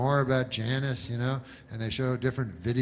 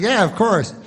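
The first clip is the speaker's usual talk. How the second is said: mock reporter; 7 semitones higher, 8 dB louder than usual. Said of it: "he's like".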